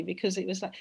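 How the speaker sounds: normal talking voice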